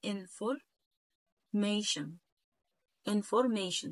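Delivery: انفورميشن ending in an English "mation", sh sound; نطق إنجليزي. Shown as a demonstration. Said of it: "دي كده بالانجلش اسمها". (نطق انفورميشن بالإنجليزي بصوت شين)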